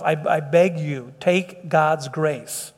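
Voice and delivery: slow, soft begging; earnest plea. Real, not acted. Pastor begging listeners to accept grace, slow and soft. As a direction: plead slowly and sincerely. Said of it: "I can't implore enough".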